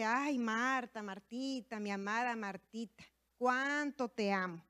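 Jesus gently calling to Martha with love, slow and tender; loving. Acted. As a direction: speak it like a loving friend, unhurried. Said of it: "Jesús responde con amor".

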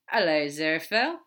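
excited greeting. Acted. Crowley on the phone to Aziraphale, excited. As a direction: greet him loudly with eager excitement. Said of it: "Crowley's voice is filled with excitement".

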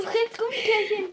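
hushed conspiratorial whisper; mock whisper. Co-host bribing hidden children, whispered. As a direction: whisper the bribe.

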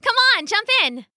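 high, eager call; excited urging. A narrator's reading. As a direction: urge a friend into the pool, high-pitched. Excited child urging friend in.

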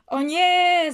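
high, loud mock wail; acted cry of alarm; dismayed cry. A narrator's reading. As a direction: call out in dismay, dragging it out. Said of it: "zawołał chłopak".

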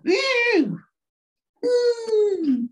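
high, drawn-out Cosby whoop; Bill Cosby impression. The speaker as Cosby flirting with Mary, hammed-up whoops. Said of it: "Here's Bill Cosby".

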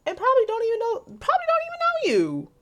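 a high falsetto jab; mocking squeak. Real, not acted. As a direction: jump way up in pitch to mock. Sudden high squeaky delivery.

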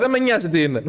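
acting out having had enough; exasperated dismissal. Customer dismissing the peddler's goods, exasperated. Retold quarrel with the seller.

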